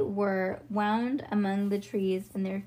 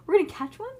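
put-on excited child voice; 10 semitones higher, 5 dB louder, much faster than usual. Harlan bouncing with excitement.

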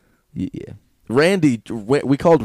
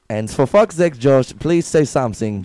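mock German accent; 3 semitones higher, 4 dB louder than usual. Nudging Josh to join the riff, mock German accent. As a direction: urge him on in a put-on German accent. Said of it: "in the German accent".

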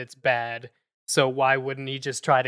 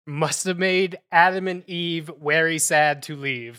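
put-on Chekhov Russian accent. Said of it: "substituting W for V".

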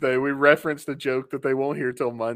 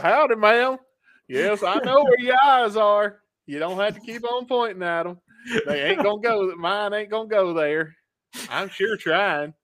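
lightly voiced Southern lady, higher pitched; mock country singer; 5 semitones higher than usual. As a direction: tease the eyes joke as a country belle. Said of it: "a singer walks up".

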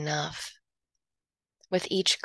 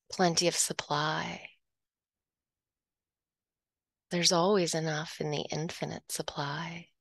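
whisper. Acted. Whispered affirmation in meditation.

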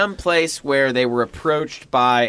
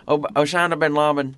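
Bush impression. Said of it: "He'd be like".

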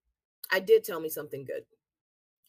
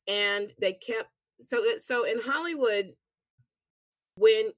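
talking around a peppermint; words round a mint in the mouth; mouth full; 4 semitones higher, 4 dB louder than usual. Real, not acted. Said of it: "I got a peppermint in my mouth".

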